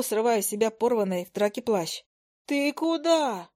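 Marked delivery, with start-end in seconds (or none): 2.5-3.5 higher, slow, drawn-out cry after him; a hint of a frightened yell; mock wail. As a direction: call out in alarm, lightly voiced. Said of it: "завопила я".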